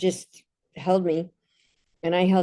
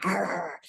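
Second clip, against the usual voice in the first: mock dog snarl; 7 dB quieter than usual. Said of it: "I can see the dog snarling".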